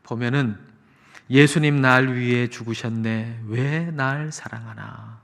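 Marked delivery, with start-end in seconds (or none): 1.3-5.2 slow, measured reciting of praise lyrics; unhurried lyric reading; hymn lyric recitation. Acted. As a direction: recite the hymn line, drawing out the question. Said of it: "그 가사를".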